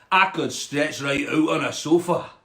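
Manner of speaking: hopeful Scottish frog. Acted. Frog picturing itself on a sofa, Scottish accent. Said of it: "a Scottish frog".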